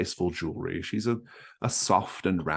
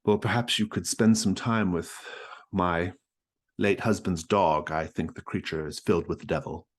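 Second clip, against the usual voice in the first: Mrs Stackpole voice. Acted. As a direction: chirp it up like a fussy hostess.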